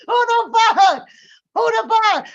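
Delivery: high, loud who the fuck; incredulous outburst. Real, not acted. Reacting to the faceless circle member, incredulous shout. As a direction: shriek the disbelief.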